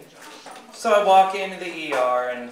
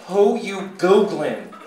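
front desk lady; 2 semitones higher, 4 dB louder, slower than usual. Acted. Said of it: "then I hear again".

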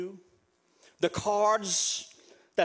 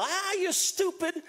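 retold yell; 6 semitones higher than usual. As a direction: berate yourself in a raised pitch. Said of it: "I will yell".

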